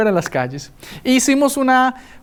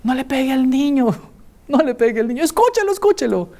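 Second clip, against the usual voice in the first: a hint of the father's gentle voice, rising on escúchelo; lightly voiced dad stepping in; father pleads with the mother to spare the boy, gently; protective father; 5 semitones higher than usual. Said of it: "la voz más melodiosa y especial".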